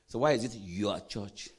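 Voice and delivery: low question leaning on "your church"; pointed emphasis on "your church"; stress on YOUR CHURCH. Shown as a demonstration. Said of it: "I'm emphasizing the word your church".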